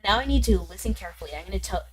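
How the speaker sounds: lightly voiced Southern accent for a game character; quick, confiding Southern accent. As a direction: read it with a Southern twang. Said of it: "giving him a southern accent".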